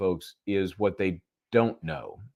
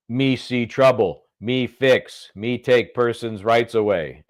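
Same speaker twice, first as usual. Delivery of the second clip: caveman voice; 4 dB louder, slower than usual. Pretend. Mocking officials as dim-witted.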